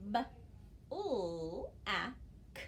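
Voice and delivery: "b, l, a, k" one sound at a time; segmenting sounds. Shown as a demonstration. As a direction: sound out "black" slowly. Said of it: "I hear four sounds".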